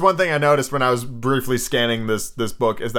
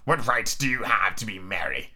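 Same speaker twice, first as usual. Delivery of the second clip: lowered, lightly voiced grump; low and quieter, a hint of old miser; Scrooge, first attempt; 5 semitones lower, 4 dB quieter than usual. Scrooge questioning his nephew's merriment, lightly voiced grump.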